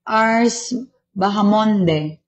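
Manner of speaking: Bahamonde read out slowly, letter by letter, unsure; unsure name reading. Real, not acted. Host reading a viewer's name, slow and unsure. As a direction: sound out the name carefully. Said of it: "hindi ko alam bigkasin".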